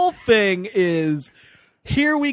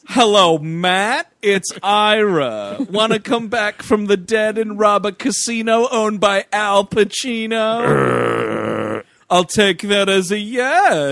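bad celebrity impression, stretched line endings; Elliot Gould; slower than usual. Heist recruiter phoning an undead cop, in a bad actor impression. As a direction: lightly imitate an actor, badly, drawing out final words. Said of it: "shittiest fucking Elliot Gould impression".

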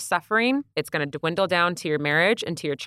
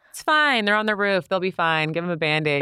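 unbothered mom of three. Retold or imitated. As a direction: toss it off like nothing matters. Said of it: "they're like".

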